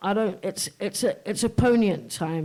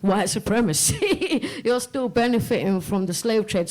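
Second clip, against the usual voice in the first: quoting the president; 3 semitones higher than usual. Retold or imitated. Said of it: "the president turned around and went".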